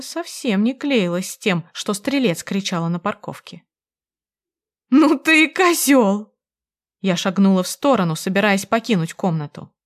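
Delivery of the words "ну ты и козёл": slow, high, loud scornful cry; возмущённый крик; indignant outburst. A narrator's reading. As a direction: spit it at him in disgust. Wife insults cheating husband.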